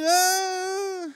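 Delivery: high mock cry of despair; a short exasperated yell upward; imitated anguished ah; retold shout. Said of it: "sinigaw ko talaga kayo".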